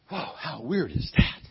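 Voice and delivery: retold disbelief, full voice; mock amazement. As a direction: marvel at it, leaning on THAT. Retold Pharaoh reacting, first take.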